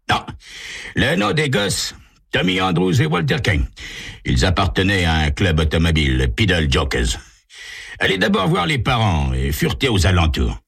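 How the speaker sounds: brisk case briefing; police dialogue. Acted. Chief briefs detective McClary on the killings, lightly voiced. Chief gives names and orders.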